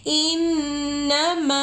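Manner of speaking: इन्नमा with the doubled nun held ringing in the nose; nasal ghunna on nun. Shown as a demonstration. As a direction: hum the nun of इन्नमा through the nose before ma. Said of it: "ringing in nose".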